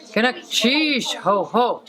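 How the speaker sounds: mean it when you say "Gunakchish, ho, ho"; with enthusiasm. Shown as a demonstration. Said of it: "Say it with enthusiasm like you mean it".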